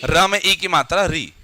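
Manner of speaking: री spelled as र plus ई; spelling out the sound. Shown as a demonstration. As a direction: spell री out for the class. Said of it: "simply री बोल के दिखाओ".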